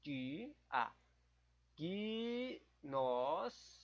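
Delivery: "Di-", "a", "Gnostico" said apart with long pauses; split into syllables. Shown as a demonstration. Splitting the quiz word to find the hiatus: "Di-", "a", "Gnostico". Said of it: "Deixa eu pensar aqui".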